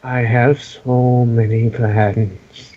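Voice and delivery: sinister voice. Acted. GM menacing tease.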